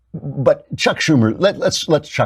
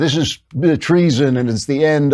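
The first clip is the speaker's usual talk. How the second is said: mock hysteria; 4 semitones higher than usual. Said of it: "what they're screaming".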